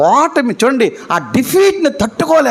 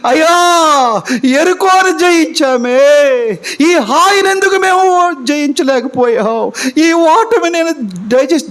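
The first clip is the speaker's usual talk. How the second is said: crying out, pitched up, a sob in the voice; tearful lament; 4 semitones higher than usual. Acted. Joshua cries to God over defeat, tearful and pitched up. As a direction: plead with God through tears.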